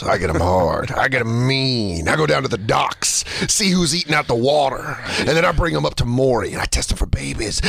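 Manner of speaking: understated sketch voice; lightly voiced sleazy fixer. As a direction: lightly play a shady show supplier. Acts out talk-show sidekick bit.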